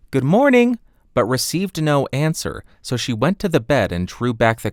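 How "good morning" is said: put-on high, louder girlish greeting; little girl calling good morning, higher. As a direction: call a bright hello into the room. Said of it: "She called out".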